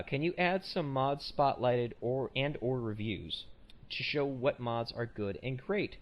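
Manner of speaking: slow, deliberate second read of the email; retrying the email line slowly; slow careful reread. Shown as a demonstration. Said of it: "let me try this again".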